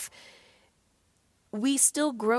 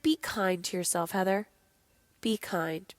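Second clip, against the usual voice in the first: gentle self-talk; 4 semitones lower, 4 dB quieter than usual. Retold or imitated.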